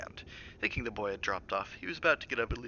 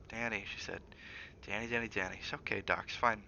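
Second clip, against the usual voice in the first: soothing mother; 5 dB quieter than usual. Acted. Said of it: "she asked gently".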